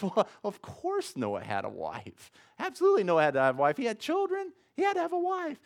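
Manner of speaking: exasperated father insisting, voice rising high; mock exasperated dad. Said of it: "And the dad's".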